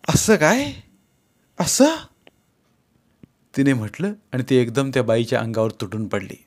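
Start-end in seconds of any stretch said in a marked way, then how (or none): 0.1-1.9 rising sharply, higher and higher; furious challenge. Acted. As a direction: build into a pouncing rage. Wife attacks mistress.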